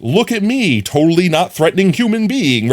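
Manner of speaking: high mock-sweet reassurance; hammed-up cutesy voice; harmless friendly. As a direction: sound as unthreatening as possible. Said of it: "be like".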